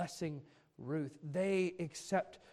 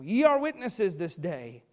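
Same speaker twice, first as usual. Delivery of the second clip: mildly excited, louder scripture reading; excited declaration; 6 dB louder than usual. Acted. Boaz declaring to elders and people, mildly excited. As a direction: read it out with a touch of excitement. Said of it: "hear the excitement in his voice".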